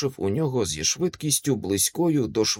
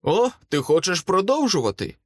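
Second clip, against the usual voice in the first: higher-pitched challenging question; mild mutter, pitched up; muttering through clenched teeth; 7 semitones higher than usual. A narrator's reading. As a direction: taunt the foe through gritted teeth. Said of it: "пробурмотів я, стиснув зуби".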